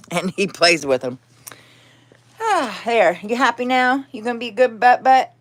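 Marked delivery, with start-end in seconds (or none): 2.4-5.3 high cooing voice for the cat; pet talk. Real, not acted.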